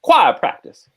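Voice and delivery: high-pitched mock Southern belle accent; affected Southern drawl on "Choir", R dropped, pitched high; Blanche Dubois. Host mocks actress's corny line, mock Southern belle accent. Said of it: "Blanche Dubois".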